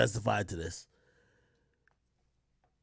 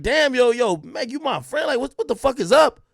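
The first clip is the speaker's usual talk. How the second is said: higher, hurt and exasperated imitation; mock best friend; 8 semitones higher, 3 dB louder than usual. Imitating the best friend confronting Meg, high and upset. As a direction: play the friend pleading with Meg, pitched up. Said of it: "she looking at you like".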